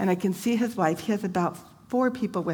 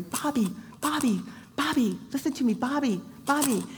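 wife calling out; 6 semitones higher than usual. Retold or imitated. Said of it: "all I can hear is his wife going".

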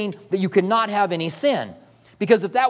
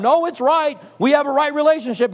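put-on defiant child; 6 semitones higher than usual. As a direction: play a stubborn kid who won't back down. Child still defying while breaking things.

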